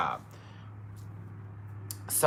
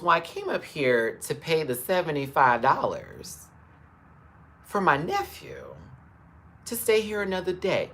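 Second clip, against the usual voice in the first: calm and kind. Retold or imitated. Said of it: "That's how my uncle was talking to him. So kind".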